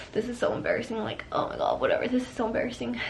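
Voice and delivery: soft, embarrassed muttering to oneself. Retold or imitated. Patient retelling her shame at being sent home, embarrassed. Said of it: "I start feeling embarrassed".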